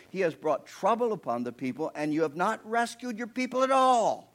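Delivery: a touch of an aggrieved Moses; complaining Moses. Acted. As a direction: demand answers from God.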